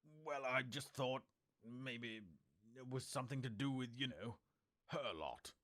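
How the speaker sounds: a hint of a timid husband; hesitant husband. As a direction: tiptoe around the subject. Husband nervously hedging.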